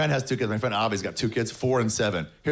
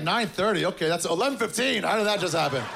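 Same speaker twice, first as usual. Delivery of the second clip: groggy surprise; 8 semitones higher than usual. Retold or imitated. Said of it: "you look at your clock like".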